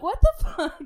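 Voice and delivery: loud, high incredulous outburst with a laugh; laughing disbelief. Retold or imitated. Retelling to co-host a friend's refusal, laughing disbelief. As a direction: blurt it out, baffled and laughing.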